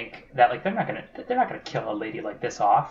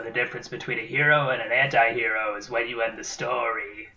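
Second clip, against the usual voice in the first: a hint of a writer intoning his maxim; Frank Herbert; 3 dB quieter than usual. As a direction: give it a mildly mannered author's reading. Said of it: "That's my Frank Herbert voice".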